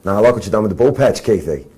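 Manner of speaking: quick, punchy Australian accent. Shown as a demonstration. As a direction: put on a fast, loud Aussie voice. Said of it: "Can you do a good Australian accent?".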